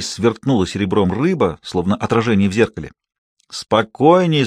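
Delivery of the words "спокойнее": put-on Спокойнее called out to the girl; shouted warning. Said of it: "закричал он". (крик через реку)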